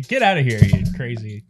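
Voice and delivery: attempted Wisconsin accent. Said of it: "trying to summon a Wisconsin accent".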